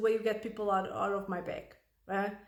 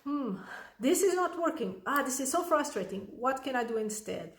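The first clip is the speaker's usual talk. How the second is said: put-on child thinking aloud; 2 semitones higher than usual. Shown as a demonstration. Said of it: "or you can think".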